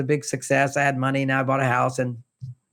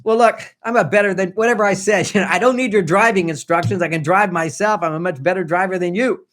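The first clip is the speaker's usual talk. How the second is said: a touch louder, mock irritated outburst; blurted frustration; 3 dB louder than usual. Husband to wife giving driving tips: irritated blurted retort. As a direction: snap back at the backseat driver, half-acted. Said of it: "As soon as I blurted out".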